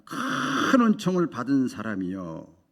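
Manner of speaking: slow, weighty scripture reading; slow verse quote. Shown as a demonstration. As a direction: read each word of the verse slowly. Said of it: "하나님 앞에 큰 은총을 받은 사람이여".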